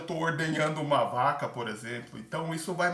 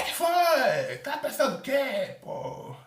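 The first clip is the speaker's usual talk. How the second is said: much higher, much louder angry retort; aggressive snap back; 10 semitones higher, 5 dB louder, slower than usual. Retold or imitated. Nervous older candidate yelling when touched on the shoulder, angry shout. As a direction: blast it back as if insulted by the touch. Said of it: "ficou um clima super feio".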